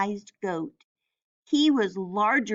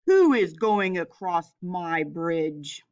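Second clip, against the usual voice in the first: low troll shout; 4 semitones lower than usual. Acted. Troll shouts up at the goat crossing his bridge. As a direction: growl out the challenge from below. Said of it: "and shouted".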